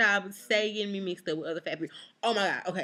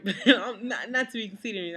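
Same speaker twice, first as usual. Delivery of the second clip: laughing; 2 semitones higher, 5 dB louder than usual. Real, not acted. Laughing at own boast.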